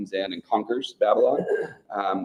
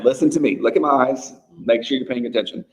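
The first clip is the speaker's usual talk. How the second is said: raised-pitch, louder mock parent; parent demanding attention; 4 semitones higher, 5 dB louder than usual. Parent to kids who won't listen, mock insistent. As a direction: call a distracted child to attention, lightly hammed-up. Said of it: "What do you do when you want your kids".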